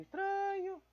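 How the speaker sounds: "estranho" in a mock falsetto, baffled; squeaky high. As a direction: jump way up into a silly squeak on "estranho". Repeats word, then squeaks it.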